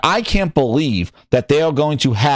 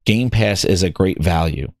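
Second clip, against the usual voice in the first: mock parroted slogan; 10 semitones lower than usual. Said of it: "everybody just says".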